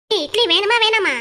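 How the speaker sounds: angry demand. Acted. Angry demand during the quarrel.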